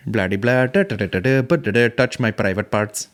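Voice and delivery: nonsense patter in a fake Indian accent; mock Indian accent. Mimicking the interviewed woman again, mock Indian accent. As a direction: gabble filler in a put-on Indian lilt. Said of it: "this woman's talking".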